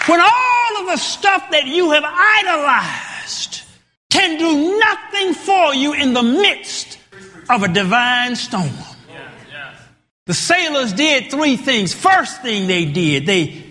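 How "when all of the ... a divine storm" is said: high-pitched, driving sermon delivery; fervent pulpit exhortation; impassioned preaching. Real, not acted. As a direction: preach it hard, building each point to a raised peak. Preaches at full force to congregation.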